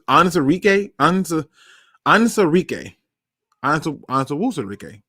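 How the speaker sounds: Anzarike stumbled through in pieces, ending in REE-kay; botched name. Real, not acted. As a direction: sound out Anzarike haltingly, tangling it into Anzawusarike. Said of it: "botching people's names".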